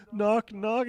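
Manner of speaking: high, loud imitation of a nervous amateur; mock stage fright on a joke opener; shaking heckler. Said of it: "he's, like, visibly shaking".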